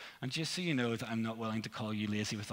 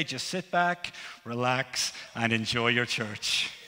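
louder, hammy captain PA voice; airline pilot announcement; 5 dB louder than usual. Pretend. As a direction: play a pilot over the intercom. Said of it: "I'm going to do a silly voice for you".

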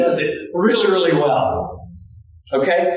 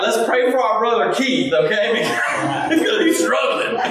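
mock pious prayer; 2 semitones higher than usual. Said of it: "he'd be like".

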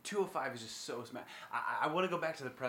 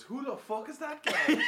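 much higher, laughing bad Irish accent; imitating McGregor's Irish accent, laughing; mock Irish accent; 12 semitones higher, 6 dB louder than usual. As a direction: quote McGregor in a hammed Irish brogue. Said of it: "looks back and goes".

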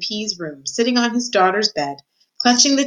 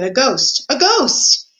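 alarmed cry; 5 semitones higher, 3 dB louder, slower than usual. Acted. Head mouse sees Despreau's ghost.

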